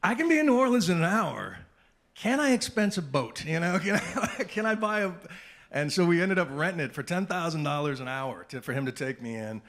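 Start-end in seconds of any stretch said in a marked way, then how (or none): 0.0-5.1 loud, high-pitched excited pleading. Retold or imitated. Reporter calling the network for boat money, excited plea. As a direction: beg the boss at full volume.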